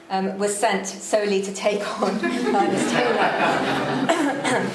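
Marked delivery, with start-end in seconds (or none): 2.2-4.7 amused laugh. Real, not acted. Amused at Hemingway's self-aggrandizing.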